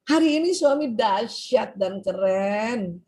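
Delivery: very slow, fond praise; admiring. Shown as a demonstration. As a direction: savour the compliment. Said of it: "lebih asik". (pujian pelan penuh kagum)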